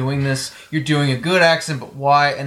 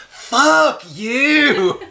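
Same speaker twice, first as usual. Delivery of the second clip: higher mock "fuck you"; imitating Juliet; 10 semitones higher, 4 dB louder than usual. Podcaster quotes Juliet's retort to him, mock high. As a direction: spit it out like the character. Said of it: "she goes".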